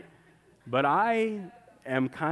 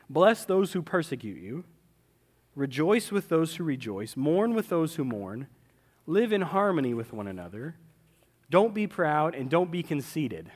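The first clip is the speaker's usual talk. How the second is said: measured, even Bible reading; scripture reading. Acted. Pastor reads Paul's commands to the congregation, measured. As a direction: read the verses steadily to the church.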